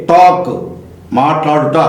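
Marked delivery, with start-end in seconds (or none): 0.1-0.5 "టాక్" with the long vowel straight into K; silent L. Shown as a demonstration. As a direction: say "టాక్" with no L before the K. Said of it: "ఇక్కడ ఎల్ పలకలేదు".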